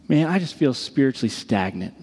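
low and dejected, imitating a friend; downcast confession. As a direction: own up to it heavily, pitch dropped. Friend confesses, later echoed back in disbelief.

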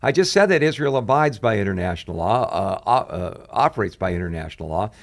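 exasperated mock outrage building through repeated truly; imitating angry retort. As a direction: quote the president's angry pushback with rising disbelief. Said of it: "he started getting visibly angry".

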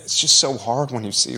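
voice breaking. Real, not acted. Host thinks of parents at a shooting, voice breaking. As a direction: push through words while choking up. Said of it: "catch my breath".

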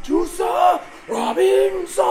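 high, loud drawn-out ring intro; New Japan ring announcer. Retold or imitated. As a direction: belt the name like a ring announcer. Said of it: "in the New Japan ring announcer voice".

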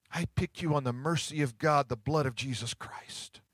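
soft, dropping near a whisper; God's tender words, hushed; hushed divine tenderness. Retold or imitated. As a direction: tell them gently, barely above a whisper. God speaking tenderly, voiced.

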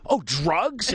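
high-pitched dawning question; naive loud realization. Retold or imitated. Tourist finally understanding the dealer, naive surprise. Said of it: "And I said it, like, really loud".

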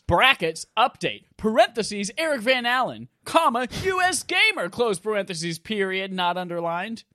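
reading punctuation aloud, high and loud; dictating. Pretend. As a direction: spell out every bracket like dictation. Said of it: "I don't know why that period's always on there".

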